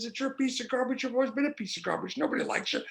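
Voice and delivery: a hint of a nagging inner bully; critical inner voice. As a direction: berate yourself as that inner voice, mildly. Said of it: "there's another voice".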